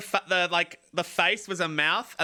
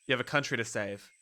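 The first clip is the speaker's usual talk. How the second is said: low, subdued story narration; low narrator reading; 7 semitones lower, 4 dB quieter, faster than usual. Acted. Game narrator urging the sleeper up, low and level. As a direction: read it low and matter-of-fact, falling at the end.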